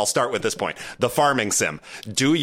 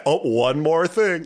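Tim Cook impression; 4 semitones higher, slower than usual. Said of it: "Tim Cook, you know, up there saying".

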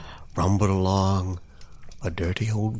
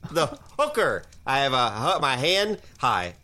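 higher, awkward hesitant voice; awkward hook-handed hitchhiker introducing himself; goofy hitchhiker; 4 semitones higher than usual. Acted. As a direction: stammer it like a nervous oddball. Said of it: "the hitchhiker said".

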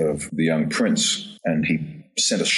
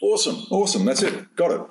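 pleased director; 12 semitones higher than usual. Retold or imitated. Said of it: "the director was like".

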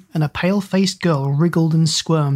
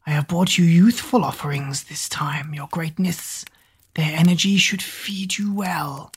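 hushed fawning servant; whispery servant. Acted. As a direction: offer it with oily pride. Googe's voice.

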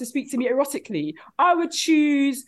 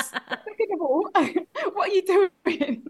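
higher, laughing through the complaint; half-laughing indignant protest; laughing outrage; 6 semitones higher than usual. Retold or imitated. Retold outraged reply.

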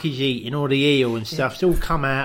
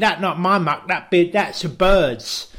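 higher voice, laughing through; laughing Kim voice; 4 semitones higher, 4 dB louder than usual. Retold or imitated. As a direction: giggle out the excuse.

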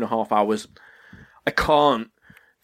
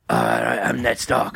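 Ned Stark; 2 semitones lower than usual. Retold or imitated. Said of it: "then Ned Stark's like".

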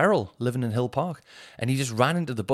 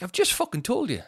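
annoyed friend; 9 semitones higher than usual. Retold or imitated. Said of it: "He was like".

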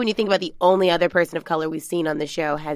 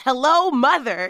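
slow, higher-pitched mock announcement; all-caps exclamation; 5 semitones higher, slower than usual. Co-host reads out her all-caps note, mock exclamation. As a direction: read it out as if written in all caps. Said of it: "I wrote on all caps".

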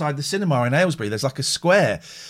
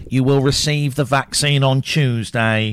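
slow, solemn official pronouncement; son's announcer voice; 4 dB louder, slower than usual. Retold or imitated. Eight-year-old son's catchphrase, lightly done slow announcer voice. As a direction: intone it like a public notice. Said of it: "he says it in this voice".

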